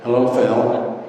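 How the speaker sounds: lightly imitated northern English accent; put-on northern accent. Bride's mother phoning the speaker, lightly put-on northern accent. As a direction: caller with a hint of northern English. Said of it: "you haven't got a northern accent".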